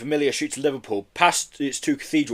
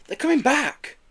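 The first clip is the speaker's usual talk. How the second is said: Yeti voice; 14 semitones higher than usual. A narrator's reading.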